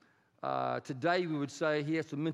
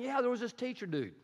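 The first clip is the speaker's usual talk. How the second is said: excited pig herder; 7 semitones higher than usual. Acted. Herder tells townspeople the news.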